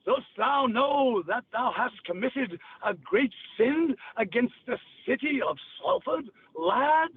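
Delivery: put-on slow, biblical old Yorkshire accent; Yorkshire dead tongue. Shown as a demonstration. Demonstrating old Yorkshire speech to hosts, biblical Yorkshire accent. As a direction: pronounce judgement in archaic Yorkshire. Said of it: "Now listen what a dead tongue is".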